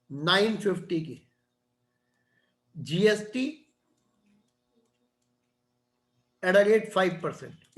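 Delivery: measured classroom dictation, piece by piece; slow dictation. Real, not acted. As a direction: dictate slowly, with long pauses between phrases. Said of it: "मैं धीरे धीरे बोलता हूँ". (धीरे-धीरे, रुक-रुक कर लिखवाते हुए)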